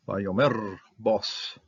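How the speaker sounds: Vayomer with the stress on the first syllable, drawn out slowly; Milel accent. Shown as a demonstration. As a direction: say Vayomer slowly, leaning on the start. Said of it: "this is a Milel accent here".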